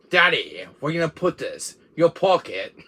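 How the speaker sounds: mock British Merchant accent; a hammed-up British trader; Merchant's British accent. Son asking his dad as the Merchant, mock British accent. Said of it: "like, a British accent".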